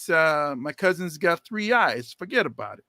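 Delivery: hammed-up New Jersey tough guy; a hint of a New Jersey accent; mock New Jersey accent. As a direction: play a Jersey wiseguy, lightly. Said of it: "East Coast roots".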